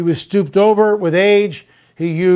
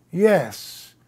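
softer, distant admission, barely above a murmur; very quiet; 8 dB quieter, slower than usual. Retold or imitated. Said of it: "he goes very quiet".

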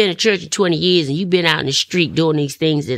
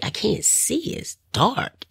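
softly confused; 6 semitones higher, 6 dB quieter, slower than usual. Retold or imitated. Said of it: "I was like".

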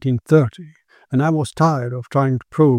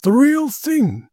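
slow, high, awestruck cry; awed exclaiming; 10 semitones higher, slower than usual. Acted. Quinn seeing the real apparition, slow awestruck exclamation. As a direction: marvel at it, drawing each word out.

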